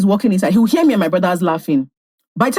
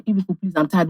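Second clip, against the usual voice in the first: tired; 4 semitones lower, 6 dB quieter than usual. Retold or imitated. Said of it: "My mom will say".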